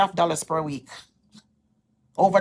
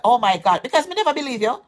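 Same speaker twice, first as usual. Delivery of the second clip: excited; 5 semitones higher, 4 dB louder than usual. Retold or imitated. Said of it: "like, excited".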